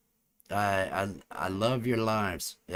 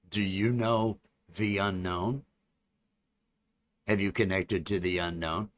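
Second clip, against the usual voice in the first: alien voice; 3 dB louder than usual. Acted. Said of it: "let me see if I can get into my alien voice".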